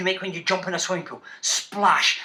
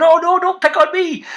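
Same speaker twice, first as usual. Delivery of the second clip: mock nervous teacher; 7 semitones higher, 4 dB louder than usual. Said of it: "teachers going".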